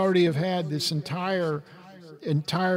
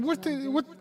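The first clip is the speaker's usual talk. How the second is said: incredulous, higher pitch; exasperated what the hell; 10 semitones higher than usual. Retold or imitated. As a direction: retell the outburst with disbelief. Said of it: "and I'm going".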